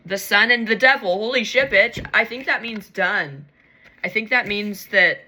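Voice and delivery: loud, emphatic excitement; real, loud exclamation of relief; excited outburst. Real, not acted. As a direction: burst out loudly at a welcome sign. Startled by cards, hoping she's done.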